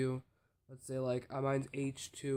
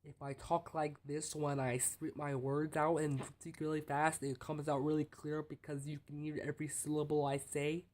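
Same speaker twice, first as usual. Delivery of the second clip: crisp fast delivery. Shown as a demonstration. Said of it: "spinning the words out like it's no tomorrow".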